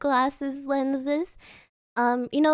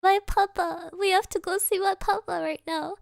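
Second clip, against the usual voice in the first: higher, lightly tearful pleading; imitated sobbing; 4 semitones higher than usual. Grieving intern explaining to the store staff, mildly mock-sobbing. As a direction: re-enact a tearful plea, understated. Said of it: "I was just sobbing".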